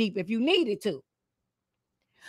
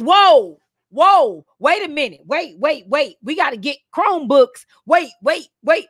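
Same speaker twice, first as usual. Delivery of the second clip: mock panic; 2 semitones higher than usual. Schools caught unprepared by the pandemic, mock panic. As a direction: play a school scrambling in sudden alarm.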